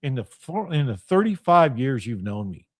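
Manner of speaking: low-pitched, controlled questioning; calm. Retold or imitated. Reminding a friend of thirty-five years of warnings, calmly. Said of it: "very calmly said".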